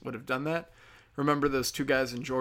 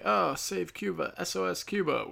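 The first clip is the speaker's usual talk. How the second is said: mocking do-gooder; 6 semitones higher than usual. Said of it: "everyone's like".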